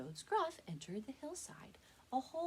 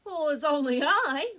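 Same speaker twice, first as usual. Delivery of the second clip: higher, louder bleating goat; 8 semitones higher, 15 dB louder than usual. Acted. Second goat bleats back at the troll. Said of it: "the second billy goat bleated".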